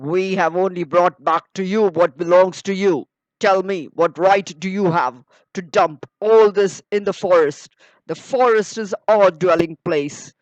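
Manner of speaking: a defiant bear throwing the blame back; bold bear. Acted. Voices the bear in story.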